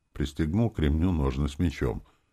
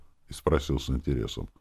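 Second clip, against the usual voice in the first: plain reading voice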